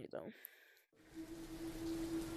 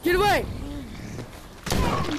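high, loud yell at the zombie; frightened shout at a zombie; 4 semitones higher, 6 dB louder than usual. Real, not acted. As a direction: scream them away. Zombie attacks.

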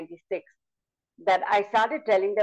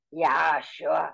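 lion; 2 semitones lower than usual. Shown as a demonstration. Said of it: "So I changed the voice like this".

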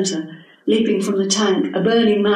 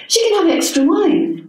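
kind; 10 semitones higher, 3 dB louder than usual. Acted. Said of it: "said Cicely kindly".

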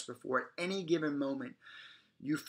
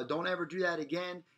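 firm; 4 semitones higher than usual. Shown as a demonstration. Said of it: "firmer and louder every single time".

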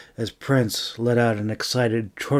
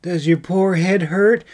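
soft coo; 7 semitones higher, 4 dB louder than usual. Acted. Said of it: "May cooed softly".

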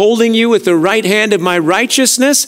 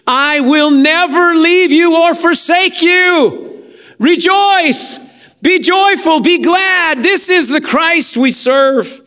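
rising preaching fervor; 8 semitones higher, slower than usual. Real, not acted. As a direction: lift it up and cry it out to the church. Preacher climaxes, calls to rejoice.

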